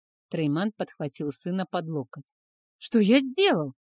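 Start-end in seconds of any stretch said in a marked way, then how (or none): 2.8-3.7 a mild growled retort. A narrator's reading. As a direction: snap it back as a sulky teen. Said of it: "рыкнул парень".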